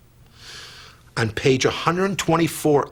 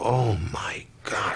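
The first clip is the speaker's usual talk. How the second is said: whispered gasp; 5 dB quieter, slower than usual. Retold or imitated. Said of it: "You go".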